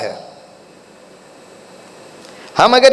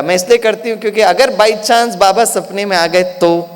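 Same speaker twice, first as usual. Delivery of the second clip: smiling reply. Retold or imitated. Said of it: "बड़ी मुस्कुराते हुए कहा".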